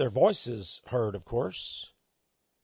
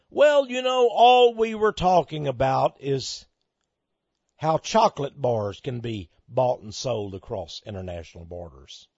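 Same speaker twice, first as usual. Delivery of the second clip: fake slimy smile; 4 semitones lower than usual. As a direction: imitate a slick answer through a fake smile. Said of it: "put on a little fake slimy smile".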